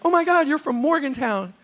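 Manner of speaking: loud, high-pitched delighted outburst; excited. Retold or imitated. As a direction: greet a hometown find with big enthusiasm. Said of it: "I get excited".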